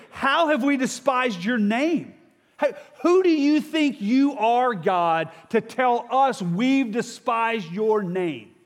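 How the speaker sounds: slow, high, affronted retort to God; indignant challenge. Acted. Priests answering God's charge of despising his name, indignant. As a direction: throw it back, stretching each word in mock outrage.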